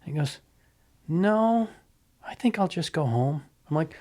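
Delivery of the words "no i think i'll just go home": backing down. Retold or imitated. Big guy backing down.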